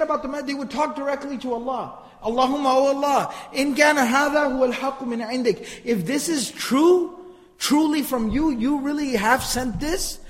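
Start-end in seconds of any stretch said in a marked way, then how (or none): 2.2-10.2 raised-pitch mock defiance; daring God to prove it, acted out; disrespectful challenge. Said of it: "This disrespectful tone. This is how they would speak".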